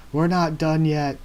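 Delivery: Luffy screaming at the leaving carriage, loud. Acted. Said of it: "screams Luffy".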